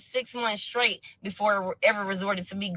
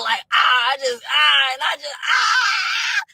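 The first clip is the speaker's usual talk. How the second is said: strained, rising cries of frustration, louder; a pained wail building higher and slower; half-crying groan; 5 semitones higher, 3 dB louder, slower than usual. Real, not acted. Telling viewers how the call hurt her, crying groan. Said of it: "I'm really in tears".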